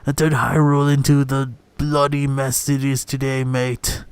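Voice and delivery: hammed-up British distrust; put-on British accent, leaning on the insults; imitated British accent. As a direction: play a resentful British old-guard adviser. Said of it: "I'm imitating, uh, more or less".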